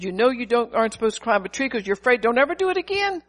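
mild father's telling-off, pitch leaping at the end; lightly voiced stern father; father scolding his daughter after the fall, stern. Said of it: "'Cause he said".

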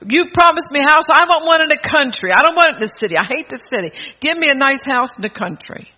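loud, high demanding prayer; a bold believer demanding a country house from God, loud and high. Retold or imitated. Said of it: "people that have boldness".

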